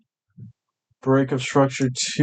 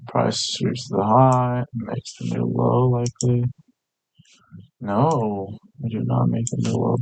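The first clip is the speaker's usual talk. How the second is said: slow, sleepy and drowsy; nodding off; slower than usual. Real, not acted. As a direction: drift off while talking. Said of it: "I'm falling asleep".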